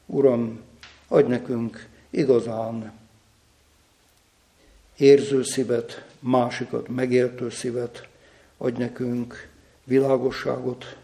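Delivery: subdued, level-pitched prayer with pauses; spoken prayer. Real, not acted. A preacher asks God for honest, humble hearts, subdued real prayer. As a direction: pray aloud in measured phrases, sincerely.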